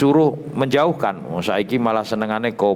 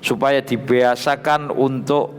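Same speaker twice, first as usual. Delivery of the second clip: raised, chanting read of Arabic text with Javanese gloss; kitab recitation; 3 semitones higher than usual. Acted. Teacher reading the kitab aloud to students, raised chant-like recitation. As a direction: intone each phrase then gloss it.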